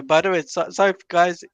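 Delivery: talking through a yawn; sleepy yawn mid-sentence. Real, not acted. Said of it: "if I'm yawning".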